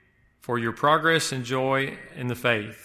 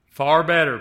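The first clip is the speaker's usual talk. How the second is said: emphatic quote; 3 semitones higher, 7 dB louder than usual. Acted. Quoting Philippians emphatically.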